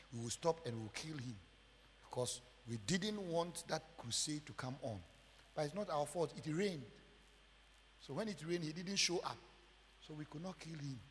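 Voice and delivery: low, soft voices of plotters overheard; hushed, matter-of-fact acted conversation; conspirators talking. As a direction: keep it down, confiding among accomplices. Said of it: "this is how they were talking".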